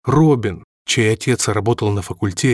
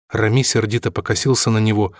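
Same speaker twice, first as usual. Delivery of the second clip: ordinary delivery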